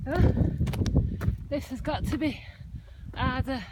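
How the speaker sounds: puffing and panting mid-climb; breathless, gasping between words; out of breath. Real, not acted. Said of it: "and the out of breathness".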